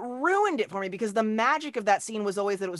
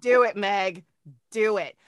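whispered; 5 dB louder than usual. Real, not acted. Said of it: "urging whisper".

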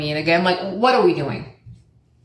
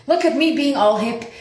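higher, playful self-praise; mock proud; 6 semitones higher than usual. Shown as a demonstration. Archer brags to herself in the rain, higher mock pride. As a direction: show off how hip you feel, pitched up.

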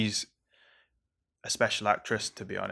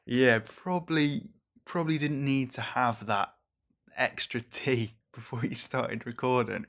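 1 self-mocking inner voice; 2 semitones higher than usual. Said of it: "I am like".

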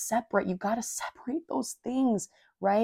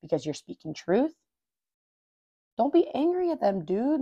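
scolding myself. Retold or imitated. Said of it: "I had to check myself and be like".

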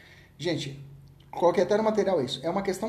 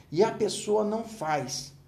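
slow repeat; 2 semitones higher, slower than usual. Shown as a demonstration. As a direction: let "E a pessoa não faz" sink in, slowly.

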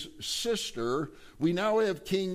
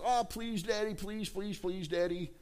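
higher, softer wheedling plea; begging son; 3 semitones higher, 5 dB quieter than usual. Acted. Absalom wheedling King David to let the sons come, soft and high. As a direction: coax your father sweetly, fading away.

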